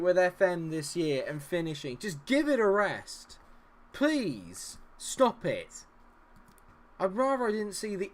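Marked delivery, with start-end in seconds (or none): none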